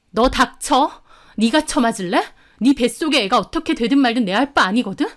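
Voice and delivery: heated, menacing rant; angry. Acted. Woman threatening pregnant rival, angry.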